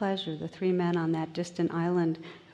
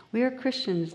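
lightly voiced proud islanders, a touch higher; proud fishermen; 5 semitones higher than usual. Fishermen proudly telling the bishop, lightly voiced. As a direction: say it with simple pride. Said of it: "In pidgin English".

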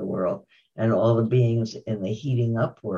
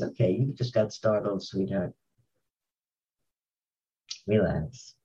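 soothing self-talk; 4 dB quieter than usual. Acted. Mind talking to itself after a startle, gently soothing. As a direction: gently reassure yourself, settling softer.

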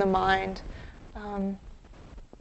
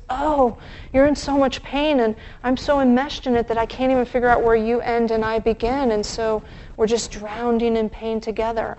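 codependent gushing; 4 dB louder than usual. Retold or imitated. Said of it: "codependence is the opposite. It says".

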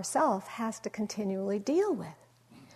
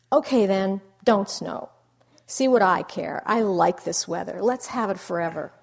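sulky; 7 dB louder than usual. Retold or imitated. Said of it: "he says".

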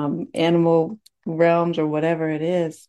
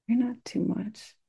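higher, much softer, gently comforting; soft tender reassurance; 6 semitones higher, 7 dB quieter than usual. Shown as a demonstration. Speaker to her own heart, soft and reassuring. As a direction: soothe yourself like a child. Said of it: "can we offer this to ourselves?".

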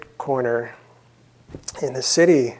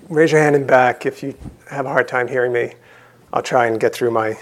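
slightly croaky, hoarse voice; croaky throat, pushing through. Real, not acted. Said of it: "my croaky voice".

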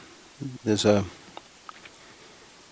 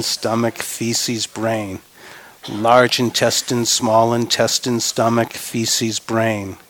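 measured list, falling on the last word; rhythmic recitation; slower than usual. Real, not acted. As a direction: lead a group recitation in an even rhythm. Leads group recitation of body parts.

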